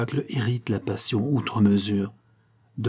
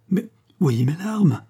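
high, drawn-out lovelorn plea; acted lover pleading through tears; tearful plea; 9 semitones higher, 3 dB louder, slower than usual. A narrator's reading. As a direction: plead slowly with pitch raised. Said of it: "avait des pleurs dans les yeux".

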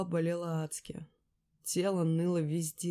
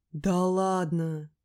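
slow, drawn-out amazed "no way"; stunned disbelief; 5 dB louder, much slower than usual. A narrator's reading. Lera hears what she did, slow stunned disbelief. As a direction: stretch it in disbelief. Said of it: "поражённо переспрашиваю".

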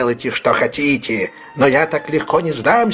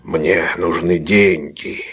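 low, slow, menacing demand; threatening demand; 6 semitones lower, slower than usual. Acted. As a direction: growl it out as a threat. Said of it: "выкрикнул Билл Сайкс с угрозой в голосе".

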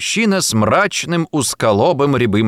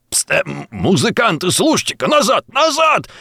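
breathless shout; 8 semitones higher than usual. A narrator's reading. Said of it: "кричал он, задыхаясь".

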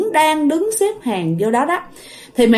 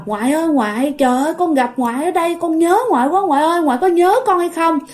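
higher, quickened cry of missing someone, lightly acted; retold longing; 5 semitones higher, faster than usual. Mother reunites with her late grandfather, retold longing. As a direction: imitate an overjoyed grandchild pouring out longing. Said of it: "Bày tỏ cái sự thương nhớ".

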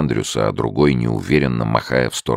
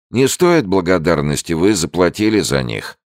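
put-on higher, louder old woman, matter-of-fact; brisk higher old landlady tone; 6 semitones higher, 3 dB louder than usual. A narrator's reading. Old woman to Andrews about the money, higher and brisk.

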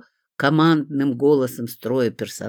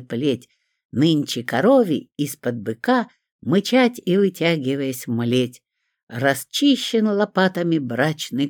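put-on child reciting aloud. A narrator's reading. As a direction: declaim the poem to the whole ward. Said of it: "громко на всю палату декламировать". (громкая декламация стихов)

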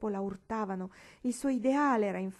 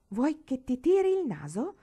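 higher and much louder threat; shrieking threat; 6 semitones higher, 8 dB louder than usual. Acted. Paola threatening Marigold, a higher, much louder shrieked threat. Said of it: "strillò Paola".

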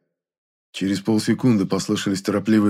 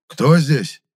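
tense voice; 5 semitones higher, 5 dB louder than usual. A narrator's reading. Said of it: "напряжённым голосом спросил он".

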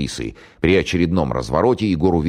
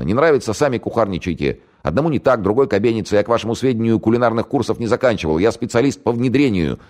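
indignant grumbling; 8 semitones higher than usual. Acted. Lieutenant grumbles out of role.

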